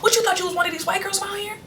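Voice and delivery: high, mocking laughing voice; a mother cracking up while teasing her daughter, high and mocking; mom laughing mockingly. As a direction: tease her through a laugh. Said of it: "my mom just started cracking up laughing".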